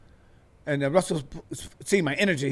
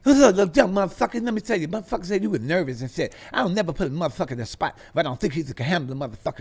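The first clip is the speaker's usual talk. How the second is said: imitating Russell Simmons; faster than usual. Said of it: "This is how he talked to me".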